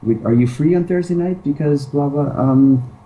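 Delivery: hesitant asking. Shown as a demonstration. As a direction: ask like a guy afraid of a no. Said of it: "the whole thing we're saying is".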